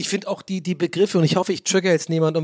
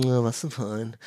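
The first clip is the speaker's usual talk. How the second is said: arrogant wine seller asking back, lower and softer; overbearing shop clerk; 5 semitones lower, 4 dB quieter than usual. Retold or imitated. Wine seller talking down to a clueless customer, arrogant. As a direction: sneer down at an ignorant customer. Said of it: "überheblich von einem".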